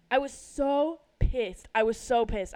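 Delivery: pissed off. Real, not acted. Reliving how angry she was.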